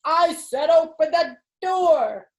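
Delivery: cross mother ordering; angry mother. Acted. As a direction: lay down the law, word by word. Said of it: "Mother banged it harder".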